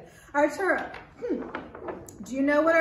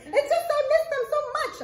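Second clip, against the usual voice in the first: puppet voice; 6 dB louder, faster than usual. Acted.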